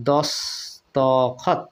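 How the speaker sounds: দস্তখত split slowly as dos, to, khot; syllable by syllable. Shown as a demonstration. Teacher breaking the word up, slow separate syllables. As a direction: slowly open the middle ত of দস্তখত into o. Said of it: "এখানে অ পর্যন্ত উচ্চারিত হচ্ছে".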